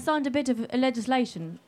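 lightly voiced presidential impression; a hint of a politician parody; Donald Trump. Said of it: "the way he talks".

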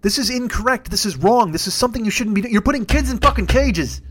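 high-pitched indignant declaration; worked-up, punched-out protest; emphatic outrage. Real, not acted. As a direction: land each line like an exclamation point. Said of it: "That's three exclamation points right there".

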